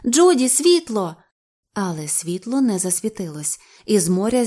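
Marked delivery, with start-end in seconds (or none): 0.0-1.1 loud, high, drawn-out command; calling out. A narrator's reading. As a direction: call for the light, stretching it out. Cameraman calls for light.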